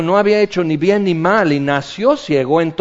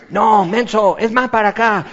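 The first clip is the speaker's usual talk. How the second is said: roof whisper; 3 semitones higher than usual. Retold or imitated. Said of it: "se oye así".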